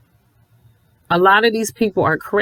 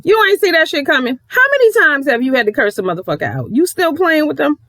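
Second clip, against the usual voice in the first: incredulous; 7 semitones higher than usual. Retold or imitated. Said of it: "I'm like".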